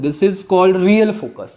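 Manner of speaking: slow, word-by-word dictation. Shown as a demonstration. Teacher dictating the definition to students, slowly. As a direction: say it slowly for notes. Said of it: "dictating to students".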